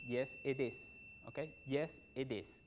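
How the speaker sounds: "it is" as "ed es"; linked, open "it is"; model answer. Shown as a demonstration. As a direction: say "Yes, it is" with open e vowels.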